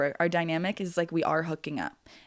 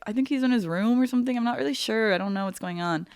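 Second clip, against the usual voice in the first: lightly voiced coworker, higher pitched; evasive coworker; 5 semitones higher than usual. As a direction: imitate a noncommittal coworker, pitched up. Voices coworker covering for Andy.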